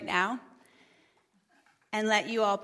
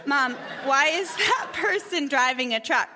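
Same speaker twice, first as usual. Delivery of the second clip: lightly voiced insistent child; imitated nagging kid, slightly higher; pestering kid; 3 semitones higher, 4 dB louder than usual. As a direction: badger Mom with another question, a bit raised. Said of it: "my kids talk a lot".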